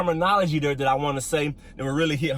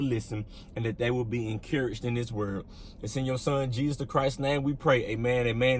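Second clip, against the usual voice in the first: low, subdued praying voice; opening prayer; 4 semitones lower, 4 dB quieter than usual. Real, not acted. Pastor opens the video thanking the Father, low prayerful voice. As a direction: pray in a low, even voice.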